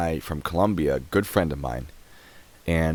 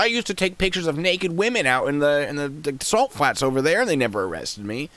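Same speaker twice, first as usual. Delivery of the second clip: higher mock-earnest retelling; mocking voice of the man's defense; mocking quote; 9 semitones higher than usual. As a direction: mimic his garbage defense. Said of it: "He's like".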